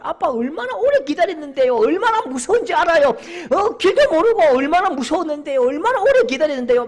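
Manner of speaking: high, loud whining at dad; acted-out childish tantrum; tearful child protesting. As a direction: imitate a little boy wailing his complaint. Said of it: "애가 울먹울먹거리면서".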